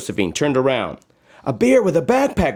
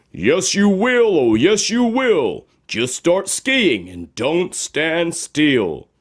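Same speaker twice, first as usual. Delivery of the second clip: higher, sing-song voice urging her on; magic shoes encouraging; 5 semitones higher, slower than usual. Acted. Talking shoes urging Josephine to climb, bouncy and higher. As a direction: cheer her up the hill. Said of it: "came the two voices".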